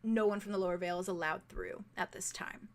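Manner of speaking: low, quiet and authoritative; guard quietly turning the bard away, low and firm; soft stern guard. Acted. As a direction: say it under your breath, firm and official. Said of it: "you hear the guard say very softly".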